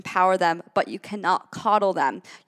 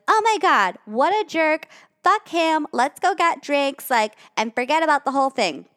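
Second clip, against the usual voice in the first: much higher, louder outraged-friend voice; gushing best friend; 7 semitones higher, 3 dB louder than usual. Retold or imitated. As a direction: hype up the drama like a loyal girlfriend. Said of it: "you're gonna be like".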